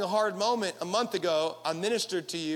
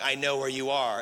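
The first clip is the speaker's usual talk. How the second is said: lightly voiced stalker, pitched low; mock creepy friend; 7 semitones lower than usual. Preacher imitating a friend who tracks his location, mock creepy. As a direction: drop low for a mildly ominous imitation.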